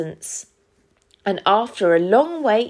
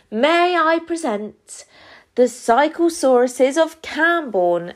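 announcing; 5 semitones higher than usual. Acted. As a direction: present them proudly, pitched up at first. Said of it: "announced Cam".

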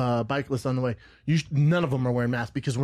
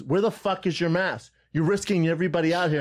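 higher-pitched mock scolding; retold yelling; 4 semitones higher than usual. Lady scolds a trail rider about his mask, mock yelling.

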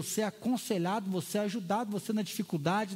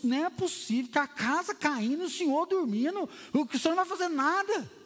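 panicked disciples; 5 semitones higher than usual. Acted. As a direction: shake him awake in panic. (discípulos desesperados, em pânico)

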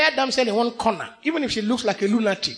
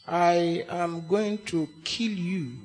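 soft, slow, tantalizing threat, much lower; sonorous, seductive; 6 semitones lower, 7 dB quieter, slower than usual. Shown as a demonstration. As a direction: draw out kill you seductively. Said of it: "very mesmerizing and tantalizing phrase".

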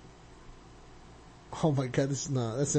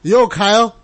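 dude voice; 3 semitones higher than usual. Acted. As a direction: read it like a hyped bro. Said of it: "listen to what it's gonna say".

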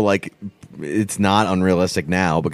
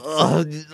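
disgusted grunt; 6 semitones higher than usual. Retold or imitated. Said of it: "always had a scowl".

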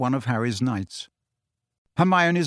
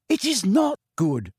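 hotly; 7 semitones higher than usual. A narrator's reading. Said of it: "said Hermione hotly".

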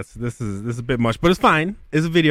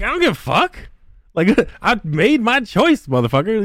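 defiant outburst; 9 semitones higher than usual. Retold or imitated. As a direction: snap back at the game, half laughing. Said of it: "I'm like".

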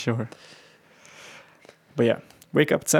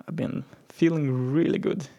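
whisper; 3 semitones higher than usual. Real, not acted. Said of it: "unvoiced whisper on a plain report".

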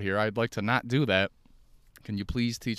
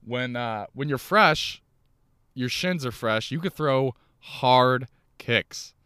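Joe Rogan; 3 semitones higher, 3 dB louder, slower than usual. Pretend. Comic explaining fresh shins, hammed-up slow Joe Rogan cadence. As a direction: lean in hard on each phrase like a podcast expert. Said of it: "I sound like fucking Joe Rogan right now".

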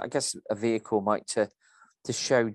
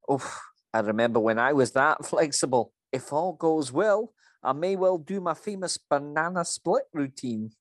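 higher, louder Scottish lady; a cheeky Scottish manager quip; Scottish accent; 6 semitones higher, 5 dB louder than usual. Acted. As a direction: Mrs Doubtfire style Scottish voice. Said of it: "that was a very good accent there".

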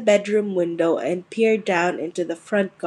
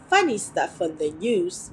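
mumbled; 5 dB quieter than usual. Acted. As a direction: mumble it to avoid trouble. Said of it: "Mister Dursley mumbled".

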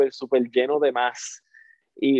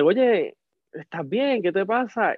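higher-pitched worried stranger; imitated concern; 5 semitones higher, slower than usual. A stranger approaches him crying alone, lightly voiced concern. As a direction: check on someone gently, pitch lifted.

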